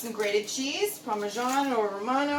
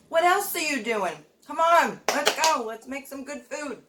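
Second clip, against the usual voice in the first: rallying call; 4 semitones higher, 4 dB louder than usual. Real, not acted. Rallying viewers to cook.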